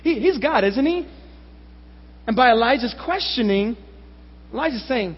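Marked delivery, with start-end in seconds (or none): 0.0-1.1 lightly raised, sarcastic tag question; acted, understated sarcasm. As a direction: feign agreement to mock them. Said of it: "You can hear the sarcasm there".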